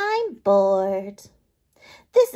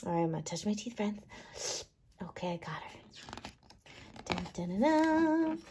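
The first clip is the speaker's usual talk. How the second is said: quiet aside; 2 semitones lower, 10 dB quieter than usual. Real, not acted.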